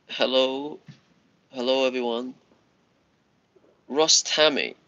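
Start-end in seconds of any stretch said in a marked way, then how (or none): 3.9-4.8 Russ Tammy misread as Russ; name stumbled over; name said wrong. Real, not acted. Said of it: "I said your name wrong then".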